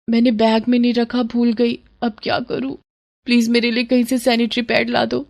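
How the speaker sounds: soft, anxious pleading; worried plea. Acted. To her friends at college, a soft worried plea. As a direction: beg quietly for help. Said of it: "ये तेरा मुंह क्यों लटका हुआ है".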